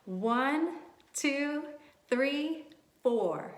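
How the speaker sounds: put-on teacher leading kids in counting; counting along. Shown as a demonstration. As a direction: count clearly for children. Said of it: "Let's count to four".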